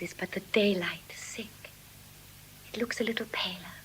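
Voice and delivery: whisper. Acted. Portia musing quietly at dawn.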